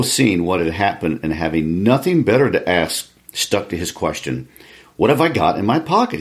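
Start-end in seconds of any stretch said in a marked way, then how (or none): 5.0-6.2 louder. Acted. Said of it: "he said louder".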